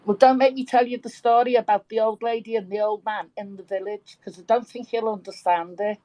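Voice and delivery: native Merseyside accent, playful warning; broad Birkenhead accent. Shown as a demonstration. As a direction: tease them in thick Birkenhead dialect. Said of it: "I actually wanna hear more of that accent that you did".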